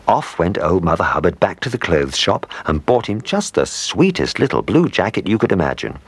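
plain reading voice

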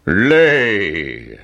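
booming giant command; giant shouting. Acted. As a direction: bark it like a greedy giant. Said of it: "shouted the giant".

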